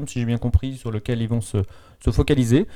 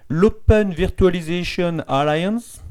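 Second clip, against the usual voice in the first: mock English accent; 5 semitones higher, slower than usual. Shown as a demonstration. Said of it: "avec mon super accent anglais".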